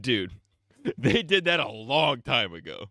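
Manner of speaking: laughing through the reply. Retold or imitated. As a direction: laugh as you answer. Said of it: "And I'm like".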